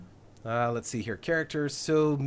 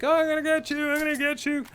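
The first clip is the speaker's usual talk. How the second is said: menacing raider taunt; 11 semitones higher than usual. Retold or imitated. Raider gloating at the colonists he chases, in a higher mock-menacing voice. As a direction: play the dumb raider gloating as he hunts. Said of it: "It's like".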